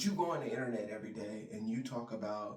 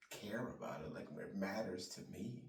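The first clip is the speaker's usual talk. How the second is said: whispered aside; 6 semitones lower, 9 dB quieter than usual. Real, not acted. Muttered aside under breath.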